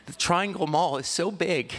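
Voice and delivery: hammed-up childish panic; panicky child. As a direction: play a nervous little boy working himself up. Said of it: "nervous kid who got very paranoid".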